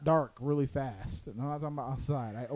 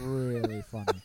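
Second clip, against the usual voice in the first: "really" stretched out long; stress on really; 3 semitones lower than usual. Real, not acted. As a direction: lean hard and long on "really". Repeats words for emphasis.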